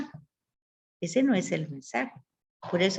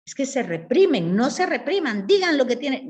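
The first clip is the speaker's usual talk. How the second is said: mock Freud urging; 5 semitones higher, 5 dB louder than usual. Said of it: "que dice él".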